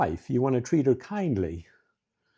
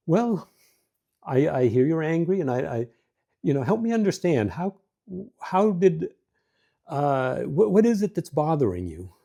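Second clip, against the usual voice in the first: higher, gentle, inviting questions; curious and open; 4 semitones higher than usual. Shown as a demonstration. Husband asking his angry wife what's wrong, curious and kind. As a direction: ask like you really want to understand. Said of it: "See the difference?".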